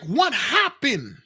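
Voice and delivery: alarmed shout. Retold or imitated. Driver shouting to the woman asking for help, alarmed. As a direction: call out in alarm at a stranger's cry. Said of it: "And then I'm like".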